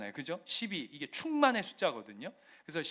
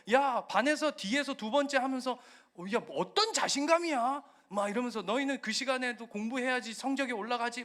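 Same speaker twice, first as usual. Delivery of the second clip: mocking classmates; 6 semitones higher than usual. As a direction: sneer at him for going to church. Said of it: "막 조롱한단 말이에요".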